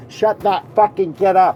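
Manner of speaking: loud, high mock yell; hammed-up irate shout; imitated angry stranger. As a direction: holler it like an intolerant passenger. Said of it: "The people like that".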